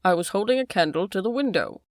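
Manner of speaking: a hint of a frightened butler begging his master; desperate pleading. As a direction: plead with him not to ask. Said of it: "in the last extremity of doubt and misery".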